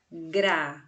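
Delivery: "gravura" split evenly into gra, vu, ra; sílaba por sílaba. Shown as a demonstration. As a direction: say "gravura" syllable by syllable, with small gaps. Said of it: "A boca mexe cada vez que pronunciamos". ("gravura" separado em sílabas: gra-vu-ra)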